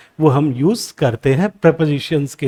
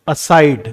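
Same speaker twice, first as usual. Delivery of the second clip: "aside" as a-SIDE, lower and falling; second-syllable stress; 4 semitones lower than usual. Shown as a demonstration. Teacher repeats the example, "aside" stressed on its second syllable. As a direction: drop in pitch, weight on SIDE in "aside". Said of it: "second syllable पे आ रहा है".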